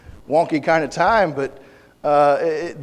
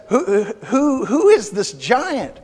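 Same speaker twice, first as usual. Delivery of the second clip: voicing David; 5 semitones higher than usual. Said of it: "he says".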